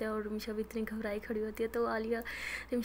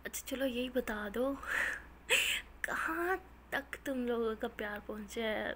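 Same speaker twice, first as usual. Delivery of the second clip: laughing tease. Acted. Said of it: "हंसने लग जाती है".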